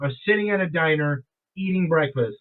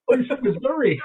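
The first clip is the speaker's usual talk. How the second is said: put-on raised-pitch disbelief in own accent; surprised; 5 semitones higher than usual. Diner reacting to the stranger's hometown, retold surprise. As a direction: repeat it back as an astonished question, Missouri said plainly. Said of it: "I've never heard anybody talk like that".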